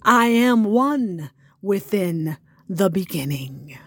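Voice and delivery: hushed whispered closing line; unvoiced whisper to end the poem. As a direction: breathe the last line as a whisper. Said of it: "what I call a poetic offering".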